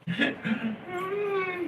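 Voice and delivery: high wailing laugh-cry; laughing sob. Acted. Comic laughing sob over a lost love. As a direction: cackle that breaks into a cry.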